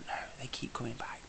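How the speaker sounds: ordinary talk, nothing marked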